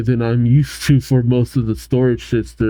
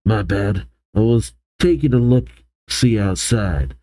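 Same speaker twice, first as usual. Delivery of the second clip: low, easygoing character voice; lightly voiced low, relaxed dude; laid-back guy; 3 semitones lower than usual. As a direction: drop the pitch for a casual apology. Cassius's laid-back lines voiced.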